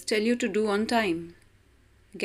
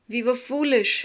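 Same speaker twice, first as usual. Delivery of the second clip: mild weeping; 4 semitones higher, faster than usual. Acted. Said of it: "wept the birds".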